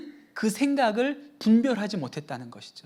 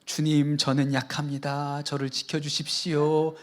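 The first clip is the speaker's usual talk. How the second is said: quiet prayer; 5 semitones lower than usual. Retold or imitated. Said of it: "눈을 꼭 감고 손을 이렇게 모으신 다음에".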